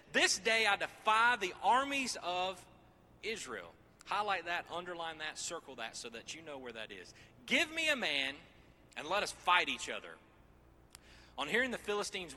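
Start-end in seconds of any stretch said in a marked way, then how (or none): 0.1-3.7 giant's defiance. Acted. Voicing Goliath's defiance. 7.5-10.1 giant's challenge. Acted. Voicing Goliath.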